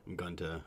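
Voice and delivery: "going to" run together toward gun-tuh; Utah Mormon pronunciation. Shown as a demonstration. Streamer trying out the accent tell, "going to" run together. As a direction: let "to" shrink to tuh. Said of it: "it's "gunta".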